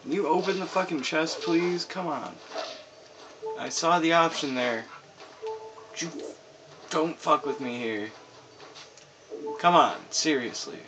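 raging gamer. Real, not acted. Frustrated with game controls.

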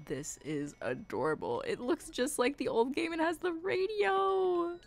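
ordinary delivery

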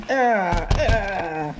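two mock fighting grunts; attack grunts. Cookie man starts attacking Donkey, hammed-up grunts. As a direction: grunt as if landing blows.

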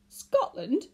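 high, loud outraged shriek; appalled shout of one word; screamed. A narrator's reading. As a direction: scream it in disbelief. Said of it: "the man screamed the word so loudly".

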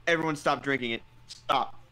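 firm loud stop order; urgent command. Acted. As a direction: call everyone to halt now. Urgently halting everyone drinking.

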